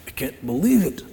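a light, quiet mock sneer; hint of scornful disbelief, lightly voiced; looking down on people. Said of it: "this attitude of looking down".

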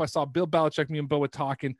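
easing-off Boston character voice; Boston accent. Acted. Troll character name-dropping the coach, lighter Boston accent. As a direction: wind down the Boston superfan act. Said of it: "I legit talked in a shitty Boston accent".

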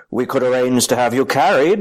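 a lightly voiced cold, dry patriarch; a hint of lordly disdain; Tywin Lannister impression. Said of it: "Tywin Lannister saying to".

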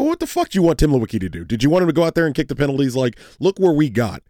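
hammed-up furious retort at a grumbling fan; retold rage. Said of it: "I look at him with such rage".

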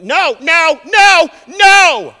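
high shouted no no; sleep-yelling daughter. Retold or imitated. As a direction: scream it like a kid in a nightmare. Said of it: "at the top of her".

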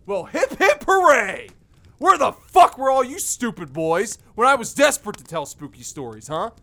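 angry, heated tirade; furious rant. Acted. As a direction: rant at them, seething.

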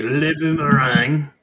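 slow French-Canadian accent on Le Boomerang. Shown as a demonstration. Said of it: "I'm gonna use a French-Canadian accent".

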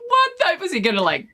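high startled shout of disbelief; shocked yell. Retold or imitated. Snake thrown into her dressing room, shocked high yell. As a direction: yelp it out, panicked and high. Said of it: "And I'm like".

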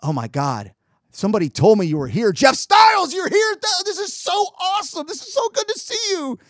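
squealing fan pointing him out to the whole bar; high-pitched fan squeal. Retold or imitated. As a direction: gush like a starstruck fan in falsetto. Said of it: "does the same thing again".

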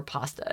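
pasta with an open AH; American pronunciation. Shown as a demonstration. A singer's way of saying pasta, American pronunciation. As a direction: say "pasta" as PAH-sta. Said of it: "she made me say the word".

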